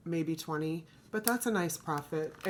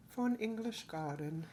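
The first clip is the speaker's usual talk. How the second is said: lightly attempted British accent, softer than usual; bad British accent; 6 dB quieter than usual. Vlogger reading coaster scenes to viewers, mock British accent. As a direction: have a clumsy go at sounding British. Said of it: "That was the worst accent".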